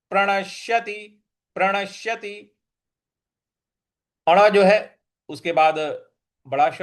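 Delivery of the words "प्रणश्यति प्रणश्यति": प्रणश्यति with a pressed, doubled श; stress on श. Shown as a demonstration. Teacher modelling प्रणश्यति, stressed श. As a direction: intone प्रणश्यति, leaning into श. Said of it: "इस पर भी हमको आघात देना है".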